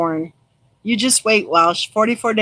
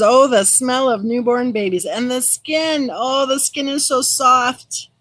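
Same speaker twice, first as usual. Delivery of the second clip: tender reading; 4 semitones higher than usual. Acted. Reading a comment about newborns.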